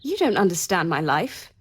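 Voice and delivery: exasperated outburst; frustrated retort. Acted. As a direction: snap back that she doesn't understand. Rejecting the servant's advice.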